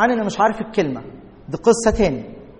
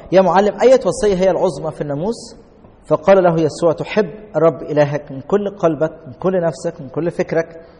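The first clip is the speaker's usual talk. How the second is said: scripture reading. Acted. Reads scripture aloud.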